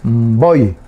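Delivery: "Voy" as one joined word, hummed mb into stressed O; all run together. Shown as a demonstration. Teacher joins the spelled letters, "Voy" said all together with stressed O. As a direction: blend the m, b, O and I of "Voy". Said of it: "Todo junto".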